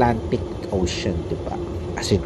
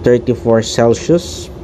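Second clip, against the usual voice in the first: pilot announcement. Pretend. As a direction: speak like the captain over the intercom. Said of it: "I'll be speaking like a pilot of the plane".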